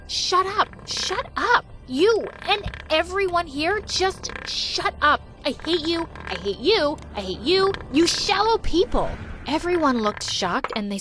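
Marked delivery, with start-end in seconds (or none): 0.1-9.1 higher pitched, hammed-up tantrum scream; mock screaming outburst. New girl screaming at her mocking classmates. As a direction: snap and scream at the whole class. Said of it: "started screaming".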